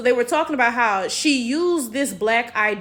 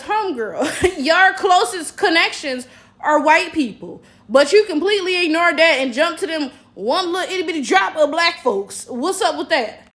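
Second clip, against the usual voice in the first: laughing call-out; 5 semitones higher, 5 dB louder than usual. Real, not acted.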